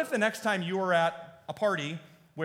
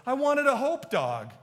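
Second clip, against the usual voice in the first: put-on little girl voice; 9 semitones higher, 6 dB louder than usual.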